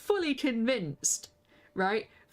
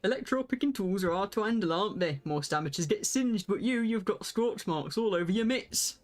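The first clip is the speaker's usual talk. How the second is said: Hildebrand voice; 2 semitones lower than usual. Acted. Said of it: "do Hildebrand like this".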